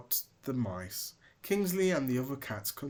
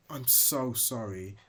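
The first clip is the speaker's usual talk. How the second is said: kind offer; 2 semitones higher than usual. Acted. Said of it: "offered Snowy White".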